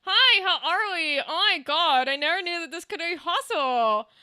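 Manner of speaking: strained smiling ventriloquist voice; ventriloquist smile. Shown as a demonstration. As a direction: talk through a fixed smile without moving the lips. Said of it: "I can't do the smile. I can't go".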